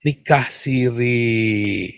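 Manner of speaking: coy, very drawn-out excuse; mock-innocent, dragged-out phrasing; mock euphemism. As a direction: imitate someone evading the word, stretching it out slowly. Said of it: "Menghindari kata itu kan".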